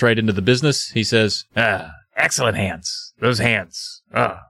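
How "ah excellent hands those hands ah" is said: slow, low, lingering creepy praise; a lightly voiced creepy piano teacher. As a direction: savor each word like a creep. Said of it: "Which is not the voice I used earlier".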